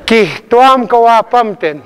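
"Kihtuam" with an audible puff of H before the t; sounded H. Shown as a demonstration. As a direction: push out the H in "Kihtuam" without spitting. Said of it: "just don't spit on your neighbor".

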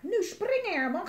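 high, loud yell; shout. Acted. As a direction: yell the order to jump. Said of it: "gilde hij". (Jelmer gilt hoog en luid naar Herman)

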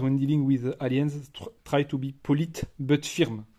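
slow, careful English accent on the quote; little English accent. Shown as a demonstration. Reading the box quote to viewers in a little English accent. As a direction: read it out in your best little English accent. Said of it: "C'était sympa mon petit accent".

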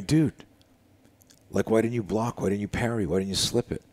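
high-pitched, imploring retold questions; exasperated disbelief. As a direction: coach acting out bafflement at his student. Retold exasperated coach questioning student.

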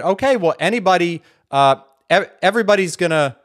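imitating a skeptic. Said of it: "What if an atheist said".

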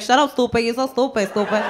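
put-on a light Bronx Puerto Rican girl's voice, teasing; mild Bronx Puerto Rican girl accent, playful. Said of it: "That is how every girl I grew up with talked".

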